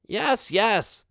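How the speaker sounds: impatient. Acted. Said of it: "they said impatiently".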